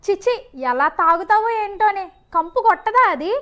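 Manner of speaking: loud, nagging scolding down the phone; mother berating her daughter on the phone, loud and angry. Acted. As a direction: tear into her daughter for drinking.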